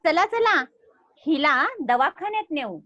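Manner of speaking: excited bird voice. Shown as a demonstration. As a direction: urge them on like an anxious bird. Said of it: "पढ़ते क्या है?".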